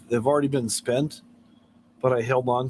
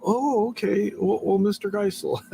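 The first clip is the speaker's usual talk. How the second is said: mock caller; 7 semitones higher than usual. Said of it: "And they're all".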